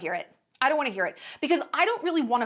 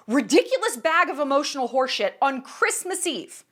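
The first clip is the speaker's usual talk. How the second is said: retold rant; 2 semitones higher than usual. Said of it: "just screaming".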